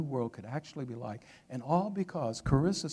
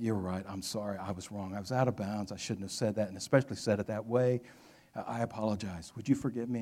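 lower, subdued retold apology; contrite apology; 4 semitones lower, 3 dB quieter than usual. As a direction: imitate a man humbly backing down. Retold contrite apology after quarrel.

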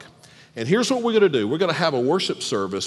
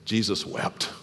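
soft, heavy "Jesus wept", almost breathed; hushed and solemn; 7 semitones lower, 9 dB quieter than usual. Shown as a demonstration. Pastor softly reads the verse to the congregation, hushed and solemn. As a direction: let "Jesus wept" fall quiet and grave. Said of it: "What does he do?".

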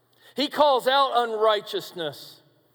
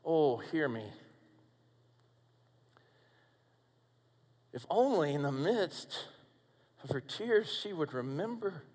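soft plea; 4 semitones lower, 9 dB quieter than usual. Acted. Preacher softly urging friends to hear Mary's hope. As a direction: lower and softer, breathy and intimate.

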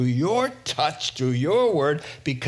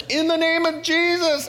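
very high, strained cry of command; hammed-up high-pitched exorcism cry; frantic mock rebuke; 13 semitones higher, 4 dB louder than usual. Disciple casting out a demon, frantic.

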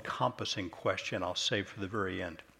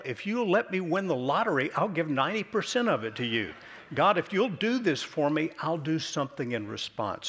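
mock bargaining prayer; 6 semitones higher than usual. Preacher imitating a congregant bargaining with God, mock plea. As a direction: play a salesman begging God for a deal.

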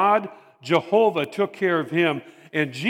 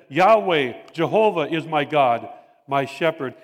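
proclaiming the name; 2 semitones lower than usual. Retold or imitated. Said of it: "David said".

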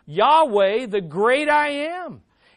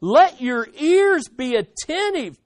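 loud, drawn-out, higher-pitched plea; desperate plea at raised volume; urgent cry; 4 semitones higher, 7 dB louder, slower than usual. Acted. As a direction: call out slowly and urgently to be heard. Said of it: "Can you hear the urgency".

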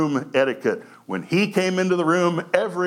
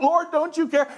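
accusing Martha; 10 semitones higher than usual. Acted. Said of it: "That's a direct quote".

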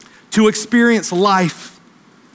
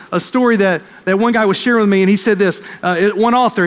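usual speaking voice

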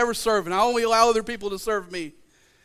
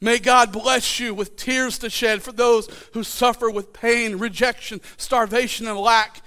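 prayer reading. Real, not acted. Pastor reading the Franciscan Blessing to his church. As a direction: let each phrase land gently.

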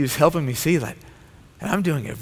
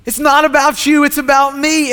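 "not" and "about" hit harder and louder the second time; louder repeat; 13 semitones higher, 8 dB louder than usual. Shown as a demonstration. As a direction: proclaim it louder, building the climax. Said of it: "He looks at all of us and he says".

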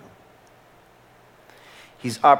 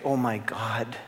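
whispered prayer; 5 dB quieter, slower than usual. Retold or imitated. Imagined prayer of remorse.

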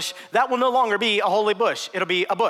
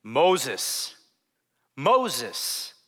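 lower, grave Mufasa-style call from the bush; 7 semitones lower than usual. Acted. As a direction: call his name lower, like a lion king. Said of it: "in his best Mufasa voice".

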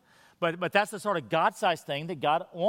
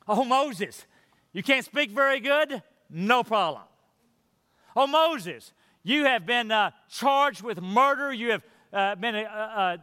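cheerful God; 4 semitones higher than usual. Retold or imitated. God reassuring Moses, voiced.

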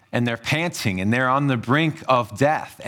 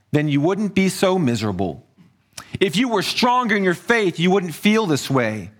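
higher-pitched reproach, falling at the ends; mild taunting reproach; heckling; 5 semitones higher than usual. Acted. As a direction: act out a blaming heckler. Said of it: "by people heckling him".

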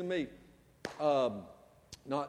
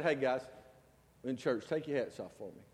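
softer, lower kind ask; gentle request; 4 semitones lower, 3 dB quieter than usual. Retold or imitated. Pastor asking teenage boys to remove hats, gently. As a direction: ask them kindly, no pressure. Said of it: "That's how I said it".

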